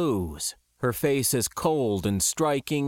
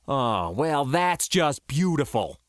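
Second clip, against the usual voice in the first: dripping sarcasm; sour, sarcastic exasperation; sarcastic spitting; 2 semitones higher than usual. Acted. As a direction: spit it out with bitter irony. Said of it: "my own sarcasm dripping".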